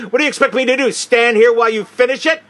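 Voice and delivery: mock insolent officer; insolent loud retort. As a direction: sneer at her for reading. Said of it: "very loudly".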